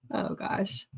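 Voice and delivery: normal talking voice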